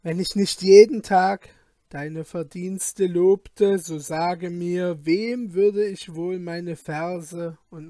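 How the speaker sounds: formal, loud poetic praise; reciting verses. A narrator's reading. Physician praises the king in verse, formal recital. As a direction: declaim it like a court poem. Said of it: "sprach beim Hereintreten folgende Verse".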